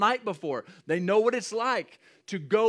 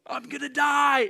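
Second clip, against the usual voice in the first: panicked cry; 9 semitones higher, 4 dB louder than usual. Retold or imitated. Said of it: "that's what they're yelling".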